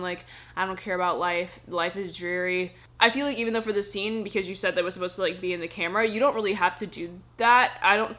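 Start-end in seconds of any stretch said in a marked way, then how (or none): 0.6-2.7 mock world-weary monotone; imitatie monotoon. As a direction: imitate a dreary, uninterested delivery, slowing at the end. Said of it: "stayed in this monotone".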